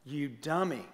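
slow drawn-out mock insult; mock insult at a bad driver; mock road rage insult. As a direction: call out the other driver, hammed-up. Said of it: "you say stuff like this".

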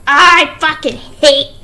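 slow, stretched-out growing groan; drawn-out gamer frustration; frustrated rage. Real, not acted. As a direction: drag out every word in exasperation. Rage at the game.

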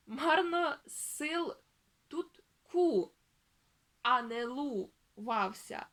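slow and loud, "марно сил" "тут ку" "а не лувався" in separate chunks; reading a split word. Shown as a demonstration. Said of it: "Торговець".

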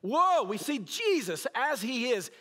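a loud, high gasped whoa of disciples in awe; awestruck terror. Retold or imitated. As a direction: cry out in sudden holy fear. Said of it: "They're saying".

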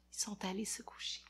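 soft fast whisper. A narrator's reading. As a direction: whisper it like the kids are asleep. Hushed aside to the kids. (chuchoté vite, tout doucement)

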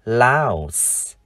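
"louse" drawn out, ending in voiceless s; model pronunciation. Shown as a demonstration. Teacher shows how to read louse, "louse" with long vowel and final s. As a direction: say "louse" slowly with a clear hissed ending. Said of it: "chúng ta đọc là".

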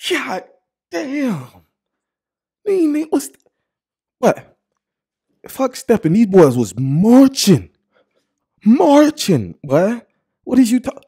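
very high squealed exclaims; can't contain the excitement; squealing hype. Real, not acted. Losing it over the fit, high squealed hype.

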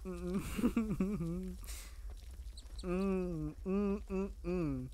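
panicked breathy hums; nervous hyperventilating noises. Real, not acted. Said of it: "doing panicking noises".

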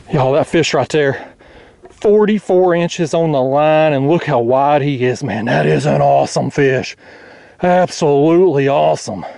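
excited. Real, not acted. Angler showing viewers his forty-four inch flathead, excited. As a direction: marvel at it with emphatic, stretched words. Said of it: "I'm sorry, I'm excited".

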